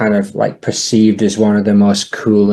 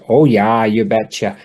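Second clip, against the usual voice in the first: a light Minnesota Fargo accent with long O sounds; a quick, understated demo of the Fargo Scandinavian accent. Shown as a demonstration. Podcaster demos the Fargo Scandinavian accent to cohost, lightly. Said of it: "have the Fargo Scandinavian accent".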